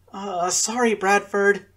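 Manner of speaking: high, loud startled gasp of sorry; gasped apology. A narrator's reading. Twin nearly knocking over old man, startled. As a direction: blurt it out, caught off guard. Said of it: "Inez gasped".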